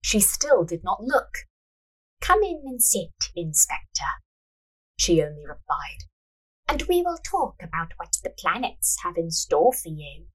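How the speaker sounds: measured storyteller's reading; story narration. A narrator's reading. Narrator reading a fortune-teller scene, measured narration. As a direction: read the tale aloud, unhurried.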